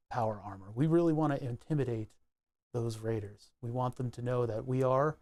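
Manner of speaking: smooth mock radio announcer, deep and hushed; NPR voice. Streamer parodying an NPR host for chat, soft and low. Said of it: "N P R voice".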